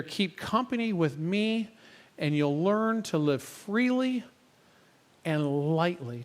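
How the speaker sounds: slow, measured phrases with long pauses; scripture reading. Acted. Preacher reads Jesus' invitation to church, slow and measured. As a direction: read it out slowly, letting each invitation settle. Recites the passage once more.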